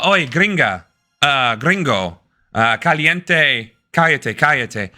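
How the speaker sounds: halting mock Spanish accent; put-on Spanish accent. Shown as a demonstration. Non-speaker showing what gets him detained, mock Spanish accent. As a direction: stumble through Spanish words with a Spanish accent. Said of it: "I don't know Spanish, but if I said".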